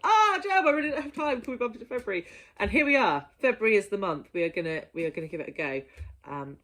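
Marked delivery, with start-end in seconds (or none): 0.0-2.3 high, louder whiny plea; mock pleading. Vlogger imitates herself begging Gem to postpone. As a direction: beg Gem with a hammed-up whine. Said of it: "and I was like".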